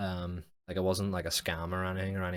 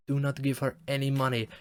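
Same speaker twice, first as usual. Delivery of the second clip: parting warning; 6 semitones higher than usual. Retold or imitated. Passing man warns tourists about a scammer, high mock warning. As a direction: imitate him calling out the warning, pitched up.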